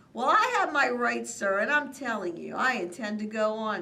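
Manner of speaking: high, loud angry yell at the Lorax. A narrator's reading. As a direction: shout him down. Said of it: "I yelled at the Lorax".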